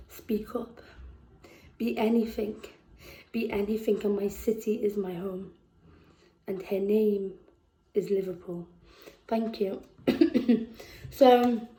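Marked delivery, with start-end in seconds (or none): 0.1-9.8 measured, heartfelt spoken-word reading; spoken-word poet reading about her city; poem recital. Acted. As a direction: perform the poem to the room, letting lines land.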